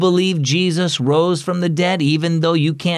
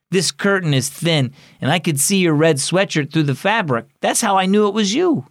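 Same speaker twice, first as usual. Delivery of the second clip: a hint of a kid's voice, higher; lightly voiced young boy; 4 semitones higher than usual. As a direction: play it as an eager boy. Boy character explaining.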